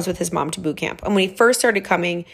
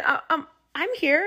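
sheepish reply; 8 semitones higher, 3 dB quieter than usual. Retold or imitated. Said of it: "I said".

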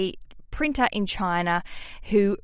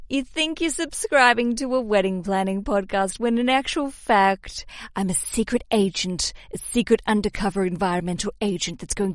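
mock villain reveal. Jokey secret agent reveal.

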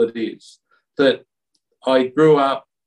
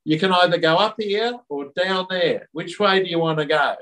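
light Cockney; 4 semitones higher than usual. Retold or imitated. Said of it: "Jesus spoke with a Cockney accent".

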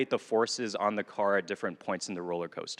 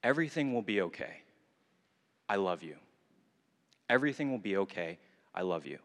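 soft, lower, tender comfort; gentle reassurance; 4 semitones lower, 4 dB quieter than usual. Retold or imitated. God comforting the hopeless teen, soft and tender. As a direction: soothe a lost child quietly. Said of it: "a sense of God saying to me".

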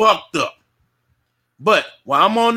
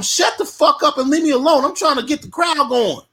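mock yell; 8 semitones higher than usual. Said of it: "I got to tell 'em".

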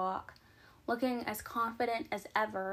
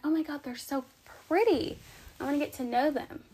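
higher, gushing first impression; mock starstruck, pitched up on "pretty"; gushing admiration; 4 semitones higher than usual. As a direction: gush as if dazzled by a stranger. Imagined gushing first impression of someone.

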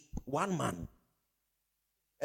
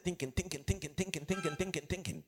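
softer, fading repeated thinking; trailing repetition; 3 semitones lower, 11 dB quieter than usual. Shown as a demonstration. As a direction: let each thinking fade away. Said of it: "acting out endless thinking".

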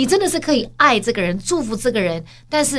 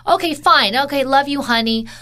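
grudging; 4 semitones higher than usual. Retold or imitated. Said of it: "What do you mean".

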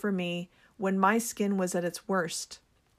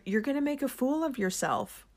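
higher-pitched self-doubting voice; nagging inner voice; 5 semitones higher than usual. Acted. Self-doubt warning her off selling, nagging inner voice. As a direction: voice your inner critic, pitched up. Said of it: "the voice in my head takes over and says".

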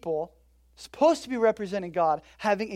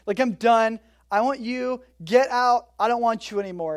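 mock fed-up Pharaoh; 2 semitones higher, 4 dB louder than usual. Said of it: "And Pharaoh's like".

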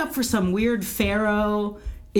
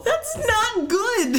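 laughing; 13 semitones higher, much slower than usual. Real, not acted. Laughing groan about composer.

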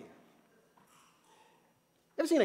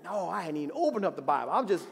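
retold frustration; 4 dB louder than usual. Preacher retelling his own upset to the congregation, mock angry. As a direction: let the frustration rise to an upset outburst. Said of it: "I'm like".

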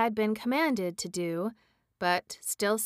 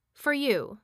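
brief witch reply; 6 semitones higher than usual. Acted. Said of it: "returned Mombi briefly".

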